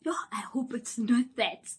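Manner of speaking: anxious whisper; inner worry. Retold or imitated. Worrying in her head about the painful check, whispered. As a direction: whisper it to yourself. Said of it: "in my head, I'm like".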